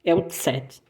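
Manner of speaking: tsete with a ts sound; name the German Z softly; German Zet. Shown as a demonstration. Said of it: "ele só tem um nome diferente".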